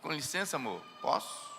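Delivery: soft, gentle, polite request. Shown as a demonstration. A husband politely asking his wife to let him pass, soft. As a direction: ask the wife sweetly for room. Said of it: "Não".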